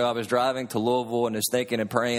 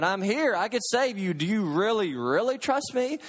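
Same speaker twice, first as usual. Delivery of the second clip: higher, lightly acted call from above; voice from heaven; 6 semitones higher than usual. Voice from heaven questions dangling man, calling out. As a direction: press the retold question, stretching the end. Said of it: "the voice from heaven cried out again".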